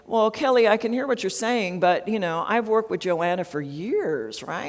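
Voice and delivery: biased manager. Shown as a demonstration. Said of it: "We don't wanna say something like".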